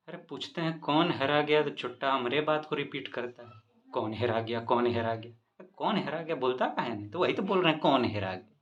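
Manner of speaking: angry policeman. Retold or imitated. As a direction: lose patience and bark at him. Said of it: "अब police वाला को आ गया गुस्सा". (झुंझलाया हुआ पुलिसवाला, तेज़ डाँट)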